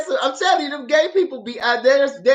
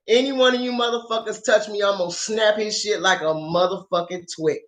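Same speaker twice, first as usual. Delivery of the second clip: retold threat; 3 semitones lower, 4 dB quieter than usual. Acted threat while holding a man.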